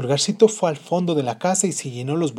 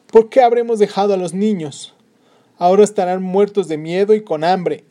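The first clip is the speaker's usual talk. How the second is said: anxious mother; 6 semitones higher, 8 dB louder than usual. Acted. Mother regrets abandoning children.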